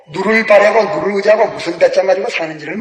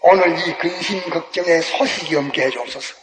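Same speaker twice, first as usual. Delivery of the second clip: mild pleading prayer; lightly voiced fearful believer praying; imitated prayer; 3 dB quieter than usual. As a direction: pray it a touch anxiously. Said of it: "이러기 때문에 기도하기를".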